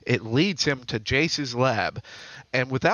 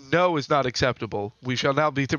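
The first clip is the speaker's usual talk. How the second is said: stiff, even robot voice; faster than usual. Acted. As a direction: speak like a cold machine. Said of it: "you know, robotic voice".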